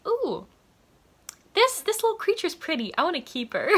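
giggly, hammed-up ogre gushing; delighted ogre. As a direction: coo over a pretty little creature. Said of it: "And he's like".

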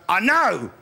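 lightly voiced mum, pleased with herself; imitating mum. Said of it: "she'll go".

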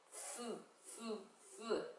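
쓰 blown as an unvoiced th, tongue between the teeth; just air through the teeth on 쓰; breathy th. Shown as a demonstration. Teacher showing the th sound to pupils, airy and soft. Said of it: "앞니 사이에 혀를요 빼밀어요".

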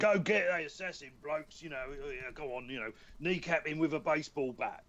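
lightly voiced British gangster; a hint of a gangster kind of voice; Ray Winston. Shown as a demonstration. Showing the voice he auditioned with, light gangster impression. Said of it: "with a sort of a Ray Winston".

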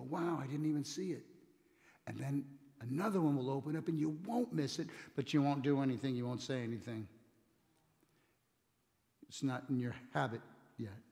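ordinary talk, nothing marked

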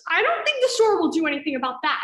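emphatic refusal. Acted. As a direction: put your foot down, loudly. Heated refusal of the plan.

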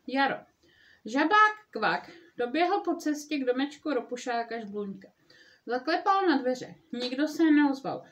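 lively read-aloud storytelling voice; story narration. A narrator's reading. Mother reading Frog and Toad aloud to listeners, storytelling voice. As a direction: read it like a bedtime story for kids.

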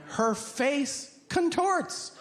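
words squeezed out through high laughter; can't stop laughing telling it; laughing while telling. Real, not acted. Describing wife's face while laughing.

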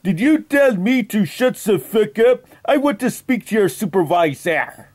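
hammed-up French accent on a prank call; outrageous fake French accent. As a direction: play a Frenchman with a thick, put-on French accent. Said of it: "That is why I have this outrageous accent".

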